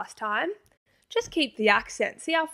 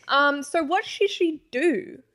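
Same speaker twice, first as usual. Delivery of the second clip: laughing; 5 semitones higher, slower than usual. Real, not acted. Asking while still laughing.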